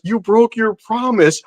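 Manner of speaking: high, slow, drawn-out accusation; mock scream. Storyteller voicing the gargoyle wife to co-hosts, mock scream. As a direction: imitate a betrayed creature's scream without the volume. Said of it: "she starts screaming".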